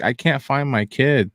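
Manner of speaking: mild mock yell, slow and insistent; retold yell. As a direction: plead it slowly at a stranger. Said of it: "Will you stop yelling?".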